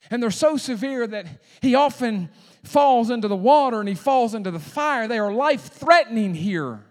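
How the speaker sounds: loud, urgent pulpit retelling; forceful preacher stressing how grave it is; emphatic preaching. Real, not acted.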